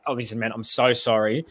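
low, soft apology; acted sheepish apology. Host to bored friend at the game, sheepish apology. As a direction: apologise quietly to a let-down mate.

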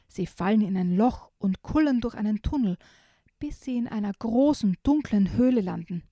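put-on lively read-aloud for children; reading a picture book to kids; story narration.

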